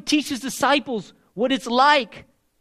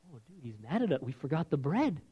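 worried disciples; 7 semitones lower, 10 dB quieter than usual. Retold or imitated. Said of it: "They're thinking".

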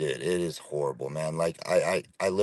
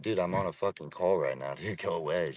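softer, off-mic brush-off; turned away from mic; 7 dB quieter than usual. Real, not acted. Telling a random guy at his car to leave, softer and off-mic. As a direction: wave someone off, half away from the mic.

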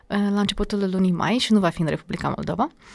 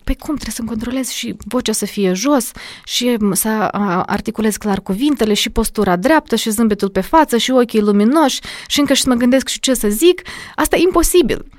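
exasperated student; 3 semitones higher than usual. Retold or imitated.

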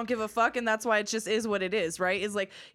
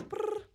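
phone ring; 12 semitones higher, 5 dB quieter than usual. Shown as a demonstration. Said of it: "Okay, phone rings".

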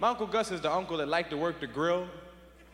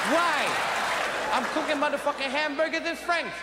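put-on higher, shouting drunk dad; drunk father scolding Gus; 4 semitones higher than usual. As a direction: chew out the uncle like a drunk father. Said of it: "He said".

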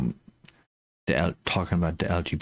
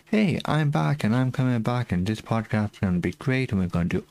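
excited; 5 semitones higher than usual. Retold or imitated. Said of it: "my last episode was this, essentially".

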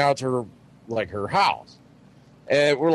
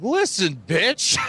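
higher, firm comeback; mock irritated; 5 semitones higher, slower than usual. Man retells snapping back at his date, mock irritated. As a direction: retell it as an exasperated put-down. Retold fight in the car.

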